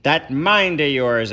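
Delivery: new voice. Acted. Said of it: "a new voice interrupted".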